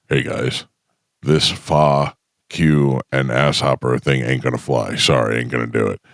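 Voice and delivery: lightly voiced low radio announcer; big-voiced radio guy. Voice guy telling the station he won't read it, big radio voice. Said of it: "He was old ninety Rock voice guy".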